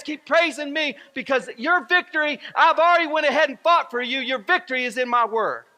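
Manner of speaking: high, loud, rousing shouts of encouragement; cheering Father God. Acted. The Father cheering believers on in their fight, high rousing cheer. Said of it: "the Father up there cheering for you".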